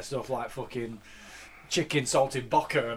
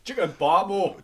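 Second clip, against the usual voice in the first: slow Geordie chicken parmo, pitched up; Geordie accent; 5 semitones higher, slower than usual. Retold or imitated. Mate mocking the rule about Geordie accents, in Geordie. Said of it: "You can't say parmo in any accent other than a Geordie accent".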